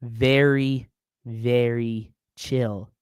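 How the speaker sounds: mock-calm slow drawl; very chill. Shown as a demonstration. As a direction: drag very chill out lazily. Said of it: "I'm keeping it very chill".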